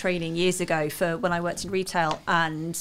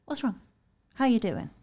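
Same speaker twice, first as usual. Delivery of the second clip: gentle counsellor; 3 dB quieter than usual. Retold or imitated. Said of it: "Other days it's your counsellor hat".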